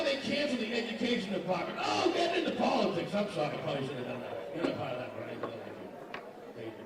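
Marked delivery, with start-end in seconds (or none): 1.8-3.1 shout. Real, not acted. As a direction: yell it as if caught out. Comic reacts to own joke.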